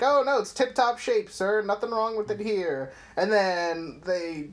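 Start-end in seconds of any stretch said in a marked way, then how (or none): 0.0-2.9 imitated nerd. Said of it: "he's just talking about how the doll's like".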